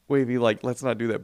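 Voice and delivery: put-on light, gentle scold to a toddler; mild parental scolding. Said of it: "they were sort of like".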